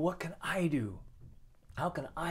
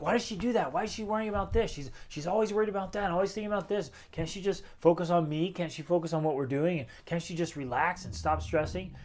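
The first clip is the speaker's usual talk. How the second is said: mock frustrated complaint, higher pitched; husband venting about his stressed wife, higher and mock-annoyed; 4 semitones higher than usual. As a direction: grumble about your wife's worrying. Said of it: "instead get frustrated, like".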